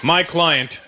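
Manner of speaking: mock-solemn lawyer with long pauses; serious courtroom lawyer. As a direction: address the judge gravely, hint of drama. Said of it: "Picture a serious courtroom drama".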